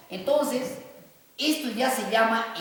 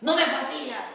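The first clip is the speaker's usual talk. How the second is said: raised-pitch example of irritation; mock anger; 4 semitones higher, 3 dB louder than usual. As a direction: act out a mildly angry rebuke. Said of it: "de una ira también".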